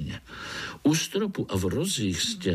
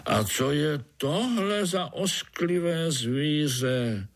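slow, grumpy mumble; slow mild grumble; grumbling; 6 semitones higher, slower than usual. Acted. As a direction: brush it off like an old grouch. Old spider asks.

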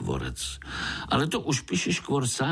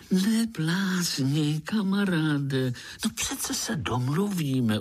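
quiet voice; 8 semitones higher, slower than usual. A narrator's reading. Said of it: "ozval se strýček tichým hlasem".

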